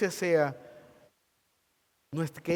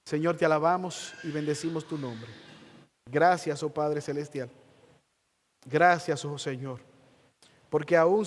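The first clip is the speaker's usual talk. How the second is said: closing prayer. Acted. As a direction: pray over the congregation with humility. Pastor leads closing prayer.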